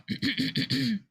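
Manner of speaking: a mock pointed throat clear. Clearing her throat pointedly to interrupt them. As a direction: clear the throat to get attention. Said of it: "she clears her throat like".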